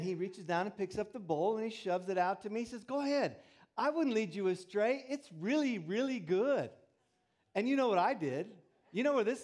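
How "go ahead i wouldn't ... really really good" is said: put-on coaxing older boy. Older boy urging cat food.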